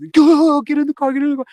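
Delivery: very high, loud acted scream; urgent yell. Friends fleeing a gunman for the car, urgent yell. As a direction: yell for everyone to flee, full volume.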